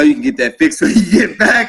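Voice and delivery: can't keep it straight while quoting; quoting through laughter. Retold or imitated. Gunny quoted, dismissing the problem.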